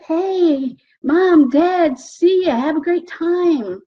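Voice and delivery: lightly acted upbeat goodbye; cheery farewell. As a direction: wave the parents off happily. Imagined farewell to parents.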